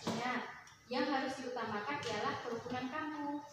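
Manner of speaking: a student reading a story passage to the class. Acted. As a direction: read aloud as a short story, with its feeling. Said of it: "sesuai perasaan yang tergambar dalam cerita tersebut". (membaca cerpen dengan intonasi sesuai perasaan cerita)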